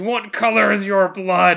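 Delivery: high, very loud scream at full blast. Retelling a scene where a character turns around: imitating a scream. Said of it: "he turns around and he screams".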